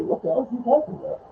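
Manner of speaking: quick, squeaky high-pitched voice; mock a baffled viewer way up high; tiny high falsetto, hurried. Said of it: "he's saying in that high voice".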